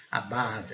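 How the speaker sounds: "Above" as a-BUV, vowel deep in the throat; short throaty uh in "Above"; back-of-throat vowel. Shown as a demonstration. Teacher shows the vowel, careful pronunciation. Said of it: "fundo da garganta".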